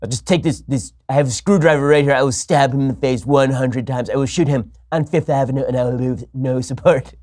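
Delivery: mock Trump rant. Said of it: "Not, not".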